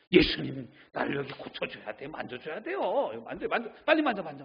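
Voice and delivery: impatient pushy pleading, speeding up; demanding prayer. Retold or imitated. Believer badgering Jesus in prayer, impatient demanding plea. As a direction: nag Jesus to hurry and touch. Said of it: "이러고 있지 않습니까".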